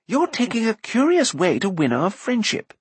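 high-pitched, indignant remark; calling out. A narrator's reading. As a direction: call over in mild outrage. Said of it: "called Floodor".

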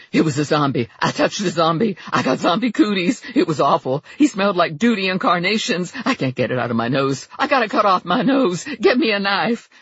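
freaking out over zombie germs; frantic disgust. Acted. Lula panicking about zombie cooties.

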